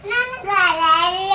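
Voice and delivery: loud, drawn-out wail; real tearful protest, stretched out; crying. Real, not acted. Child wailing to mother in upset, crying. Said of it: "ಅಳ್ಬೇಡ ನೀನು".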